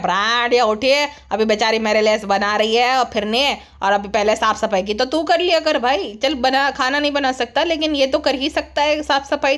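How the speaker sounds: a lightly voiced low man; गुटखा king. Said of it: "गुटखा king जो है इस बोलता है". (हल्की भारी आवाज़ में नकल)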